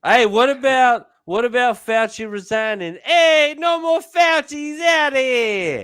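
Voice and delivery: gleeful. Real, not acted. Gleeful cheering over Fauci.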